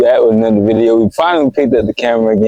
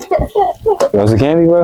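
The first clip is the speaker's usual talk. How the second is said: creepy high slow coax; 6 semitones higher, slower than usual. Acted. Creepy van offer, slow.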